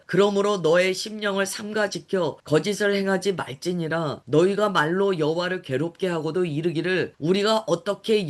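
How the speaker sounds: even, measured Bible reading; scripture reading. Acted. Preacher reading the prophet's words to the congregation, measured scripture reading. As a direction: read it out as formal scripture. Reads the Bible passage aloud.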